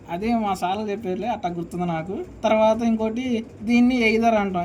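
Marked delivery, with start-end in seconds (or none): 4.1-4.3 either said as AY-ther; either, mispronounced AY-ther; wrong pronunciation. Shown as a demonstration. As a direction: say either with an "ay" first vowel. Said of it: "ఇది కూడా pronunciation wrong".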